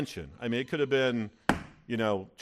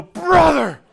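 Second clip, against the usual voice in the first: joyful shout; 16 dB louder than usual. Retold or imitated. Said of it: "and I go".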